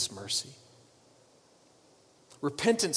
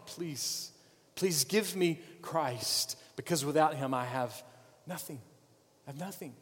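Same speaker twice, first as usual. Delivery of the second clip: soft, pleading, dropping almost to nothing; hushed pleading prayer; 6 dB quieter than usual. Acted. Preacher voicing a desperate sinner's prayer, hushed and pleading. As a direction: beg God quietly as if nothing is left.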